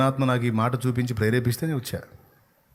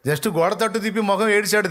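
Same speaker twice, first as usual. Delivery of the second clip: ordinary talk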